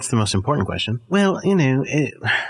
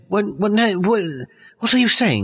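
surprised; 9 semitones higher than usual. Real, not acted. Realizes he was insulted.

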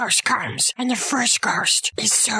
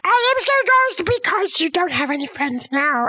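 indignant protest; 5 semitones higher than usual. Acted. Ghost protests he is scary.

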